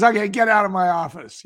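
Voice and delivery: half-yelled brusque send-off; mild mock yell. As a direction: imitate an irritated boss throwing someone out. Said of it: "he was yelling at me".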